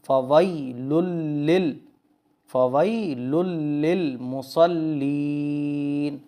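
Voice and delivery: measured tajweed recitation for learners; Quran recitation. Shown as a demonstration. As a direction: recite it clearly with held long vowels. Slow Quran recitation demo.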